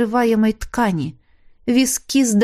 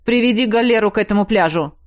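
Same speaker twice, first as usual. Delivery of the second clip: urgent shout; faster than usual. Acted. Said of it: "закричал Чезаре".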